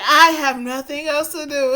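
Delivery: imitating the sad pitiful reading; mock pitiful. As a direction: parrot her pitiful tone, teasing. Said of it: "the way that you read that sounds so damn sad and pitiful".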